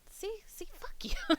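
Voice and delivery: high, loud teasing outburst; playful yell. Real, not acted. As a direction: yell it in mock anger.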